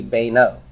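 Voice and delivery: beno said as "bay-no"; long first vowel. Shown as a demonstration. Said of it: "should just keep the serif here".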